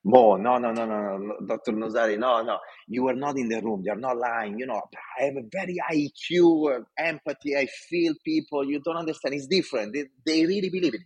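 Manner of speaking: pleading retold protest. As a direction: replay your eager young self protesting. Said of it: "I'm like".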